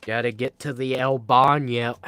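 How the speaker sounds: hammed-up bad Spanish accent on El Baño; mock Spanish accent. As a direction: toss off El Baño in a goofy fake Spanish accent. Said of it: "that was a horrible accent".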